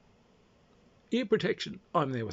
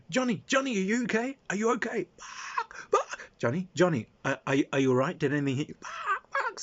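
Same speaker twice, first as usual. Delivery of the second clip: high, louder frantic calling; retold panicked calling; 9 semitones higher, 3 dB louder than usual. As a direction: call out in alarm to the hurt kid. Panicked calling to injured kid.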